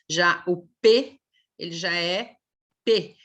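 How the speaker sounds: "P" as a burst after closed lips; phonics demo. Shown as a demonstration. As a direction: pop the "P" sound. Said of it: "tem que fechar os lábios". ("P" explosivo)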